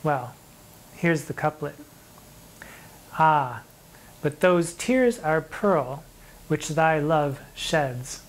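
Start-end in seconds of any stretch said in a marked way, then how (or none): 3.2-6.0 slow poem recital. Acted. Teacher reciting a sonnet to students, slow and measured. 6.5-8.2 "sheds" said with a short e, rhyming with beds; sheds not sheeds. Shown as a demonstration. Teacher choosing the modern "sheds" for the students. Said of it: "I'll say sheds instead of sheeds".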